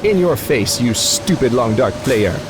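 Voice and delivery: mock French-accented taunting as the game. The game taunting the player, in a lightly French-accented gloat. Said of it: "voice suddenly started getting French".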